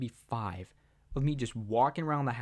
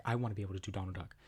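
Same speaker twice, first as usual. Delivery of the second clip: put-on 1 wistful kid self; 4 semitones lower, 6 dB quieter, much faster than usual. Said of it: "I was like".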